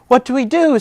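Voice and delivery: high, loud worried ask; panicked. Acted. Rabbit to friends before curtain, high panic. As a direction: fret out the question.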